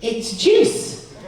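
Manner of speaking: high, thin, placating squeak; timid high voice. Acted. Boyfriend presenting juice to his angry girlfriend, high and meek. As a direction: offer it meekly, pitched right up.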